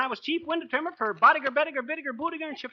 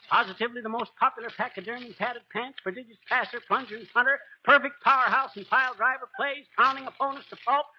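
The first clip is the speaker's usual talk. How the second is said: boastful alliterative patter; 3 semitones higher than usual. Acted. Braggart's alliterative title patter.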